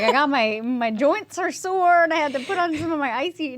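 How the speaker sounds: a lightly voiced old man griping about sore joints, slowing down; mock creaky old-timer, only a hint; old man complaining. Telling the co-host about sore joints, a light old-man grumble. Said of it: "I feel like such an old man when I say that".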